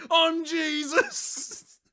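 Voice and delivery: high, loud, drawn-out mock yell; mock shout. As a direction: bellow it slowly as a comic big reveal. Acts helmet reveal as the shouting man.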